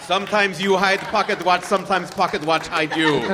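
mock Russian accent. Host riffs in mock Russian comic style.

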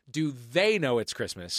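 slow line with "they" picked out; stress on they. Shown as a demonstration. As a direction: stretch and lean on "they". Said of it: "put into very sharp relief".

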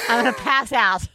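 panicked laughing shout; half-laughing panic at ants; phobic panic. Real, not acted.

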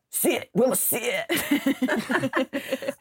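stern, commanding drill sergeant; army general voice. Retold or imitated. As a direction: bark it like a general giving orders. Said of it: "kind of, like, serious voice".

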